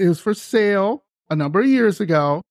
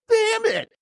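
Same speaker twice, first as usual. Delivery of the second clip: mock disappointment; 14 semitones higher than usual. Disappointed the house isn't haunted.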